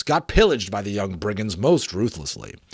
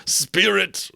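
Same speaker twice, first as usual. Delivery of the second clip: Scrooge pleading; 8 semitones higher than usual. Acted.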